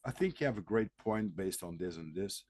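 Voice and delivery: breathe, then speak evenly and reasonably; calm and composed. Retold or imitated. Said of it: "just talk on a normal way".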